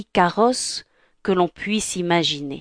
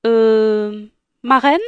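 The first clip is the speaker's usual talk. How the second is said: Cinderella voice; 2 semitones higher, 4 dB louder, slower than usual. Acted. Cinderella hesitant.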